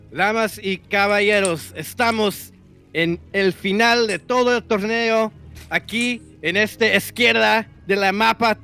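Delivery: big booming ring announcer intro; lucha libre announcer. Pretend. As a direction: announce the fighters like a wrestling show. Mock Spanish ring intro.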